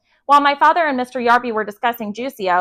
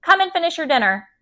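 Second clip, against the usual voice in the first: higher-pitched call to another room; raised, summoning father; 6 semitones higher than usual. A narrator's reading. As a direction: call the boy in from his room. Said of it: "my father called".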